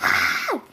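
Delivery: short strained yell; hammed-up cry at the end of a tirade; mock scream. Storyteller acting out the blow-up, short mock scream. Mom's yelling acted out.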